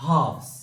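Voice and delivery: halves said with no L sound; silent L. Shown as a demonstration. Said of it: "ये जो L है". (halves में L silent)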